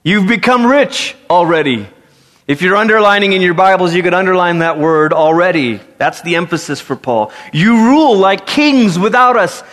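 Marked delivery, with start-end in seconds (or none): 0.0-1.9 sarcastic. Retold or imitated. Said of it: "he says with a little bit of sarcasm". 7.5-9.6 sarcastic. Retold or imitated. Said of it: "a lot of sarcasm".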